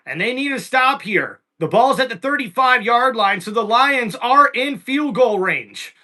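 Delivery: steady broadcast play-by-play. Acted. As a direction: call the game like a broadcaster. Live play-by-play call.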